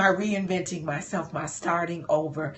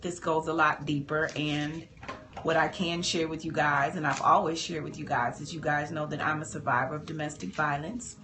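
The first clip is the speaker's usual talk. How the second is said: holding back tears; 3 semitones lower, 3 dB quieter than usual. Real, not acted. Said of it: "I'm trying not to cry".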